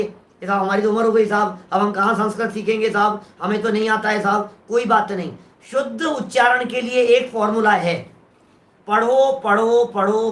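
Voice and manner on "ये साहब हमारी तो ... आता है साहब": mock elderly excuse. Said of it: "हमारे बहुत सारे लोग कहेंगे".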